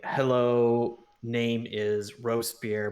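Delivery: slow, halting greeting in a bad accent; bad broken-Dwarvish accent. Player introducing himself to a dwarven woman, bad broken-Dwarvish accent. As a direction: put on a bad foreign accent, word by word. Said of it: "trying to put on a bad accent".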